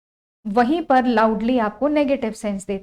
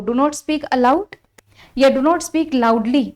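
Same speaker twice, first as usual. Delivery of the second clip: very slow, word by word; slow dictation; much slower than usual. Shown as a demonstration. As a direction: read the options out for copying. Teacher dictating options.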